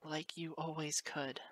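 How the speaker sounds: whimper. Acted. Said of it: "whimpers the next part out".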